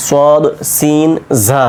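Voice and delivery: slow, careful সদ, সিন, ঝা made at the ridge; articulation demo. Shown as a demonstration. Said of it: "এই তিনটা উচ্চারণ জিহ্বার আগা".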